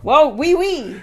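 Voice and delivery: playful mock-French charmer; lightly hammed-up French lover; Pepe Le Pew. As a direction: toss it out as a joking Frenchman. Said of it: "who I was going for was Pepe Le Pew".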